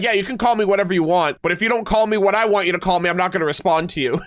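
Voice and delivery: quick, flippant retelling in a character's place; mock paraphrase. Streamer sums up the character's speech for chat, mocking. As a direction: rattle it off fast, mocking her demands.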